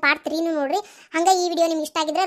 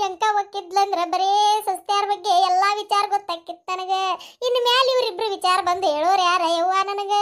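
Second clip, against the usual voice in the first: mock lament. Mock funeral lament by neighbour.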